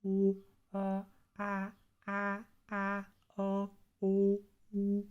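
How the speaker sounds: high vowels shifting from dark to bright; resonance shift. Shown as a demonstration. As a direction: slide the vowels from hollow to bright. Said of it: "what I'm changing there is primarily resonance".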